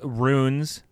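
runes, one syllable with a long oo; mispronunciation demo. Shown as a demonstration. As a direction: show runes with no I sound. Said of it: "Instead of, like".

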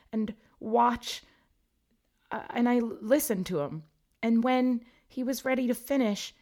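high plaintive ghost explaining; mournful Myrtle. A narrator's reading. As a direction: mourn as you tell it. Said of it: "she explained mournfully".

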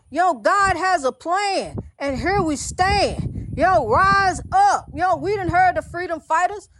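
slow chanted call to rise; slow sermon rhyme; rally cry. Real, not acted. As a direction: build to a slow rousing call.

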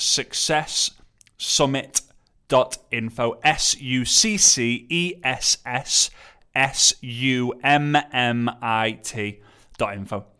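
slow, careful spelling; slow spelled out. Shown as a demonstration. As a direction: spell it out letter by letter. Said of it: "very difficult for me to say that with my lisp".

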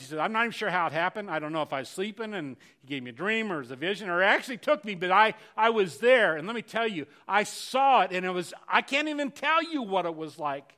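loud, driving sermon delivery; preaching at full force. Acted. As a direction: preach it out to the whole hall. Preacher at full volume retelling Paul.

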